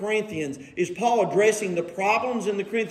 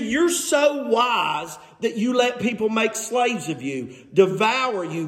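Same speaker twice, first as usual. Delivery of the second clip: mock praise of their wisdom; lightly needling, preacherly sarcasm; sarcastic. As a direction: sarcastically admire their foolishness. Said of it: "Can you hear the sarcasm?".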